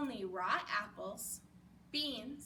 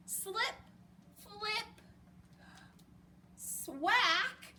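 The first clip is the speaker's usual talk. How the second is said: sound effects; 7 semitones higher, much slower than usual. Acted.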